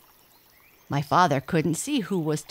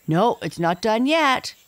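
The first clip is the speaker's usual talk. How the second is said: tiger voice; 5 semitones higher, 4 dB louder than usual. Acted. Tiger peers into mouth.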